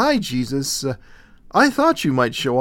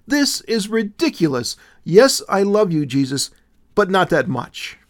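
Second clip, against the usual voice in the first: higher and louder, anxious outburst; nervous exclaiming; 6 semitones higher, 4 dB louder than usual. A narrator's reading. Willow protesting to Jesus, nervous and high-pitched. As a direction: pour it out in a rising nervous panic. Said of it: "she exclaimed nervously".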